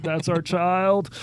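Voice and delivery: slow, drawn-out disbelief; mock dismay. Father retelling parents watching their son's mess, dismayed. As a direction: stretch it out in mock parental horror. Parents' shocked reaction, retold.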